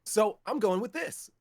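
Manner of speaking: lightly upbeat golden retriever guy next door; a hint of a chipper white guy next door pitch. Shown as a demonstration. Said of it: "golden retriever white guy next door".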